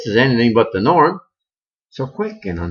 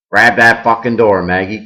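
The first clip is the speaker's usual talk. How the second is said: crying out; 2 semitones lower, 5 dB louder than usual. Acted. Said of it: "cries one voice".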